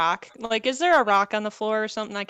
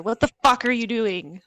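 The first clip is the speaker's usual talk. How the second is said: whisper yelling; 3 semitones higher, 6 dB louder than usual. Acted. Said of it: "angry whisper".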